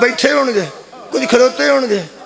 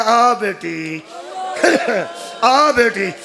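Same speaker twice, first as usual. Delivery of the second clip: slow, drawn-out, lower call; respectful elder; 3 semitones lower, much slower than usual. Acted. Elder calling the bereaved sister to the body, respectful. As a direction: beckon gently, stretching the words in grief. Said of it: "ਬਜ਼ੁਰਗ ਮੈਨੂੰ ਇਤਰਾਮ ਨਾਲ ਆਖੇਗਾ".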